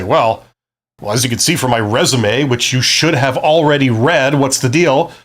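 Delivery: smug, condescending read of the line; arrogant. Shown as a demonstration. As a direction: talk down to them as if they should already know. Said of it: "If you're gonna say it in a very arrogant way".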